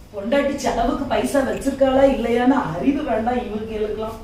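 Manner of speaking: usual speaking voice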